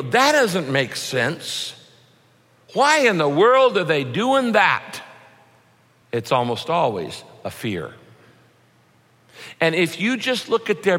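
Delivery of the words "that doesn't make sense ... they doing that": baffled. Retold or imitated. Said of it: "that you go".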